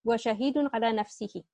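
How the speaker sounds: هو شهيد على نفسه rattled off quickly in one breath; fast run-through. Shown as a demonstration. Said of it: "our related to khabar is على نفسه".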